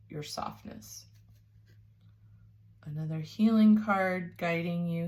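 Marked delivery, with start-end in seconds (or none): 0.1-1.1 breathy whisper of your softness. Real, not acted. Reader whispering tenderly to her Taurus viewers. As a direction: hush it tenderly to the listener. Soft tender emphasis in reading.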